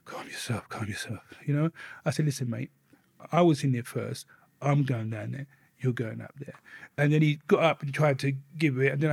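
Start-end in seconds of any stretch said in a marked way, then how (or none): 0.0-1.2 breathy whisper, telling himself to stay calm; self-calming whisper. Retold or imitated. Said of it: "I had to say to myself". 2.2-6.5 quiet warning. Retold or imitated. Cold warning to cellmate.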